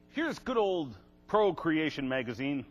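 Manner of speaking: drawn-out, mock-fond sarcasm; sarcastic. Real, not acted. Lecturer introducing a magazine to the audience, sarcastic. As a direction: say it slowly with heavy irony. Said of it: "That's a sarcastic comment".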